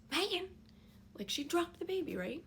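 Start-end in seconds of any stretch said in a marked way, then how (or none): 0.1-0.5 higher, louder yell of the name in panic; panicked shout. Retold or imitated. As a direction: shout the name as if fear takes over. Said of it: "my fear was if I just".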